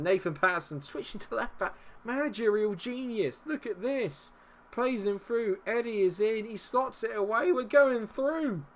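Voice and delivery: high-pitched, giddy running commentary; thrilled and triumphant; elated goal recap. Real, not acted. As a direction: crow over the move, rising to the finish.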